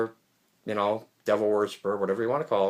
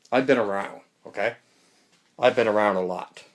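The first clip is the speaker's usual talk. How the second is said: shaking. Real, not acted. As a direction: voice jolted by shaking. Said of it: "Sorry about the shaking there".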